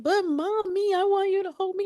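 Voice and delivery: put-on high-pitched pleading child voice; imitated little daughter. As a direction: plead like a small child wanting mom. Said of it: "And she's like".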